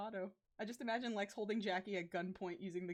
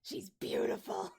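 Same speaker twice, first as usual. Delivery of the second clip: whisper; 4 semitones lower than usual. Real, not acted. Whispered aside about the friend.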